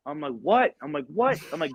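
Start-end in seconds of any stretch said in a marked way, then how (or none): 0.4-0.7 high, quick startled reply; alarmed question. Retold or imitated. Assistant answers the cursing gunny, alarmed question. 1.1-1.4 high, rising retold reply; alarmed question. Assistant answers the cursing gunny, alarmed question.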